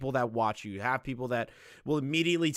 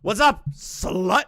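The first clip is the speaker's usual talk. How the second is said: slow, high, louder mock greeting; mock slutty greeting; 8 semitones higher, 7 dB louder, much slower than usual. Caller hears the friend pick up, slow mocking greeting. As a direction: stretch out a cheeky greeting. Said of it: "the first thing you hear is".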